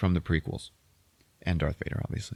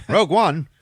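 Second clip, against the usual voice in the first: higher, louder puzzled question; mock startled radio query; baffled echo; 9 semitones higher, 6 dB louder than usual. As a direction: repeat it in disbelief. Officer puzzled by call sign.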